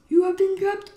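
high, shouted gloat; loud villain proclamation. Pretend. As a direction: announce it loudly to the caught prey. Villain line, second loud take.

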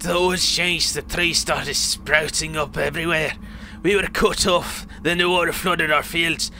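lightly voiced old man recounting hardship; acted old storyteller with a put-on accent; old man in the story. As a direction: tell the grim tale as an old villager.

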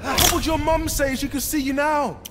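battle shout. Acted. Taunting goons in fight.

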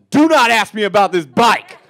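tough guy. Retold or imitated. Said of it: "face that just says".

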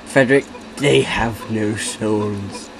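slow, grave reply; solemn mock voice. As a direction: deliver it like doom.

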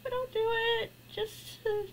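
high, whimpering reluctance; real reluctant whimper; whiny reluctance. Real, not acted. Dreading the spider game.

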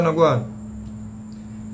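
very slow, breathless whisper; whispered aside. Real, not acted. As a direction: let it drop to a whisper. Show flopped, no promotion.

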